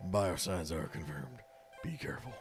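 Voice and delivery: lightly voiced ship computer; robot voice, even and measured. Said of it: "you wanna do the robot voice".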